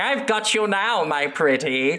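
slow, sneering, moustache-twirling cartoon villain voice. Describing a role-play to a partner and voicing the villain: Snidely Whiplash villain voice. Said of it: "the Snidely Whiplash kind of character".

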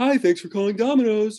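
put-on voice, pitched way up, very high. Imitating a man answering the phone at a pizza place: high voice. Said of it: "That's a high voice".

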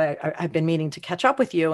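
ordinary talk

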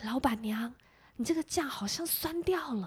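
very quiet, soft, hushed murmur. Retelling a diner who stood up to tell the owner something, speaking very quietly. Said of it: "他站起来跟老板娘很小声的说".

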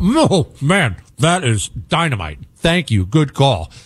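faked delight, laid on, slow put-on enthusiasm. Retelling chewing a snail while watched, imitating own fake excitement. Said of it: "You have to act like you're excited".

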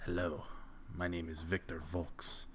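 put-on hushed, very soft, seductive, sultry Eastern European accent. Narrating a scene and voicing Victor as he introduces himself: sultry Victor Volks voice. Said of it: "introduces himself in this in this very sultry voice".

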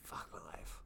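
whispered, breathy, hushed sighing voice. Showing how the phrase has to be said: sighing voice. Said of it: "I got to do it in that sigh voice and look in the sky".

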